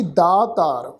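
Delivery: ਦਾਤਾਰ with long aa after the d; long first vowel. Shown as a demonstration. Teacher demonstrating spelling to congregation, long aa in ਦਾਤਾਰ. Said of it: "ਦੱਦੇ ਨੂੰ ਕੰਨੇ ਦੀ ਮਾਤਰਾ ਲਗਾ ਕੇ".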